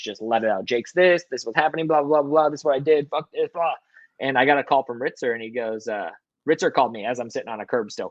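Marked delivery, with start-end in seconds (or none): 0.7-3.7 a hint of a dad cussing, raised and quick; mock dad rant. Dad venting to the manager, mild mock rant. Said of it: "all the colorful language".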